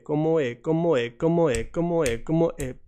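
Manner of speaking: ¿Cómo e? with the O of cómo sliding straight into the E; linked o and e. Shown as a demonstration. Teacher drilling the vowel link. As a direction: join the O and E into one glide. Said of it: "we connect O and E".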